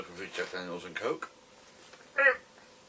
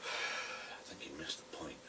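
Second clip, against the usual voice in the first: whispered aside; 3 semitones lower, 6 dB quieter, slower than usual. Real, not acted. Dry aside after the grumbler.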